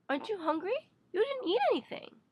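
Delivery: high-pitched, disbelieving mother voice; fretting mother. Acted. Mother to child over a still full plate, fretting. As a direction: act the mother, pitch climbing sharply. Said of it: "have my mother look at my still full plate and say".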